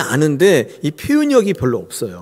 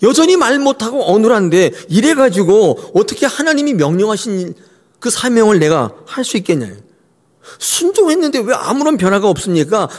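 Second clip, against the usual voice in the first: sarcastic protest; 5 semitones higher than usual. Retold or imitated. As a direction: needle God with bitter sarcasm. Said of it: "하나님께 빈정대고 있는 거예요".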